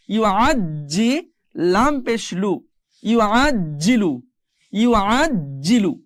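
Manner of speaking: slow syllable building up to "ইউ আজ জিলু"; spelling drill. Shown as a demonstration. Teacher models it for learners, slow cumulative drill to "ইউ আজ জিলু". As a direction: spell each part, then join "ইউ আজ জিলু" with a held double j. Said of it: "আমরা বাকিগুলো একটু পড়ার চেষ্টা করি".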